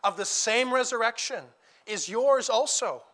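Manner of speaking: earnest sermon voice, steady and weighty; preaching. Acted. Preacher urging the congregation at a funeral, earnest preaching. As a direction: exhort the flock to hold on to hope.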